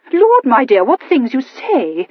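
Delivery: slow, amused and indulgent; indulgently. A narrator's reading. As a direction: humour the child, drawn out. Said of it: "remarked Missus Morphrey indulgently".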